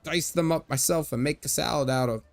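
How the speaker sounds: put-on jolly old Irish merchant showing off; Irish leprechaun merchant. Old merchant boasting to strangers in a hammed-up Irish brogue.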